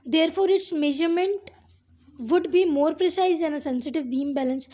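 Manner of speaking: slow dictation. Shown as a demonstration. Teacher dictating a textbook sentence to students, very slow. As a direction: read the line out word by word, very slowly. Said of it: "reading textbook line slowly".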